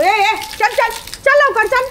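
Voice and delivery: high-pitched hurrying call; insistent high call to a pet; urging along. Real, not acted. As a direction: chivvy the dog along in a high voice. Hurries the fleeing dog along.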